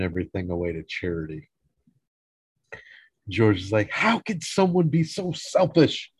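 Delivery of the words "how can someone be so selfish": high-pitched indignant complaint; mock outrage. George hearing the gifts went to charity, indignant. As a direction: protest as if personally robbed.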